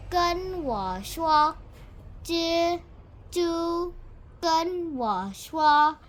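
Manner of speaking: 用清楚的高声领读"蜘蛛"; Chinese word drill. Shown as a demonstration. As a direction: say 蜘蛛 high and clear, syllable by syllable.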